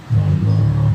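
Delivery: breathed out as a whisper; hushed whisper. Real, not acted. The preacher, struck by fear of God, whispers. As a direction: whisper it in awe. Awed exclamation.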